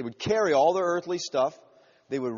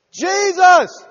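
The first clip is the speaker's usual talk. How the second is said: high, full-force imitated scream for help; 14 semitones higher, 13 dB louder than usual. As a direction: cry out to be heard over a crowd. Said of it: "And he's screaming because".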